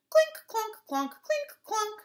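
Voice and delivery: clink and clonk like plucked strings; ukulele plinking noises. Acted. Boy playing ukulele around town, imitated plinking.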